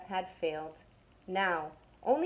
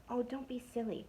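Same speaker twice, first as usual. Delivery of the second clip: soft hushed voice; whispered; 3 semitones higher, 7 dB quieter than usual. Acted. Second burglar scoffing at partner, softly hushed. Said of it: "whispered the other burglar".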